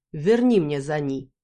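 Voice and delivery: громче и медленно, с надеждой; попроси с надеждой. Acted. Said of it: "с надеждой уставился на меня". (Бархан просит героиню: с надеждой)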